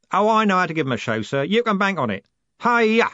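fast, high and loud, building to a yell; excited coachman. A narrator's reading. Jim driving the horses, excited coachman. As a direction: whip them up with glee.

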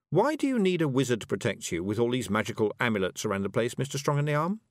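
falsely sweet question; sugar-coat a jab; sweetly. Acted. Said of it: "said Tiffany sweetly".

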